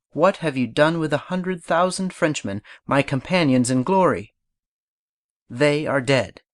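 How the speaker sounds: vivacious oratory, striking the key words; decisive emphatic strokes. Shown as a demonstration. Napoleon addressing the Directory on his return from Egypt, decisive and vivacious. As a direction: deliver a declamation with firm stresses on the emphatic ideas. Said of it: "Deliver the following with decisive strokes".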